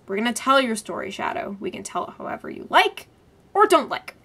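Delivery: fast, flat and menacing; flat menace. Retold or imitated. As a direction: threaten without any color. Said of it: "really flatly, menacingly says".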